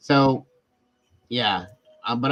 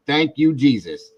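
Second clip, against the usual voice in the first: overjoyed thanks; 5 semitones higher, 5 dB louder, slower than usual. Retold or imitated. Jumped up and down like a little kid.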